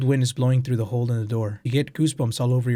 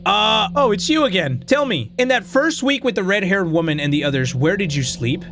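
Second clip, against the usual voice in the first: a lightly voiced sly talking potato, a bit higher; 5 semitones higher, 3 dB louder than usual. Potato in the drawer quizzing the player, lightly voiced and sly. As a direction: play the sneaky potato in the drawer, needling.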